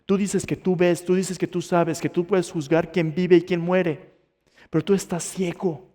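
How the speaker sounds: lightly voiced divine rebuke; stern lesson. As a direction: press each accusation home with measured force. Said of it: "Aquí está la gran lección".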